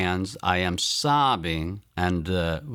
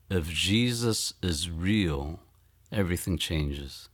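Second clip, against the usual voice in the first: slow realization; 3 semitones lower, 3 dB quieter than usual. Retold or imitated. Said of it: "say to myself".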